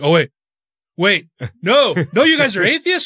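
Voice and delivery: rising, high-pitched disbelief; mock shocked realization. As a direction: imitate a preacher suddenly appalled at who they are. Preacher notices atheist shirts, turns.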